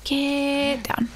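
whispered urgent warning. Real, not acted. Streamer hiding from enemies, urgent whisper. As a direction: get down, hissed quickly. Urging chat to hide.

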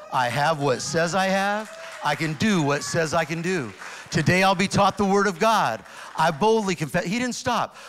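loud, bold confession of faith; bold declaration. Retold or imitated. Boy reciting the church declaration, bold loud proclaiming.

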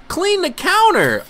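high, slow nagging command; drawn-out high order; mock order. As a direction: boss him like a fussy parent. Ordering his Sim around.

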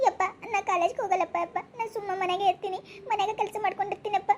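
acted crying while begging a parent; whimpering, upset child; tearful pleading. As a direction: plead tearfully to stay home. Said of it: "ಎದಕ್ ಅಳಕತ್ತಿ ಹಿಂಗ?".

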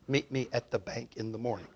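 chuckling echo of the words; puzzled laughing echo. Retold or imitated. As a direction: repeat it through a laugh, unsure. Repeating words he barely understood.

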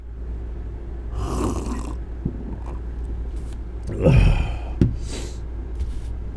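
heavy sigh. Real, not acted. Catching breath after angry outburst.

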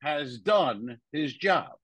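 slow, weighty pronouncement with stretched words; deliberate, measured mock-authority; Cosby impression. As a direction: draw out each word like a solemn verdict. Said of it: "Cosby walks up ... and goes".

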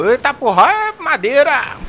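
sudden high yelp; hit hard crying out. Real, not acted. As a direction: yelp as the blow lands. Hit by boss, cries out.

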